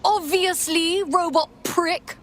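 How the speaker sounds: slow, mocking, every word dragged out; sarcastic drawl. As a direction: roll your eyes at the robot, slowly. Mocking the AI's obvious question.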